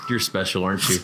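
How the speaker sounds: condescending quip. Retold or imitated. Wife quietly mocking her husband, a touch of condescension. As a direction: talk down to him gently. Wife's retort, quoted.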